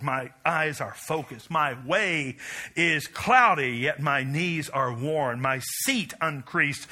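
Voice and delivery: building manifesto, preached with rising force; preaching recital. Acted. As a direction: proclaim it like a credo from the pulpit.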